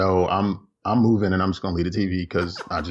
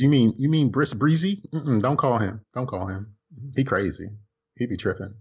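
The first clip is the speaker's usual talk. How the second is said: Alexa voice; 5 semitones higher than usual. Retold or imitated. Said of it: "She said".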